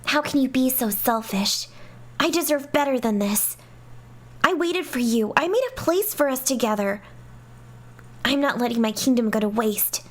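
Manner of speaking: reading the dialogue with a hint of each character; a mildly acted argument between princess and friend; lightly voiced game characters. Reads game dialogue aloud.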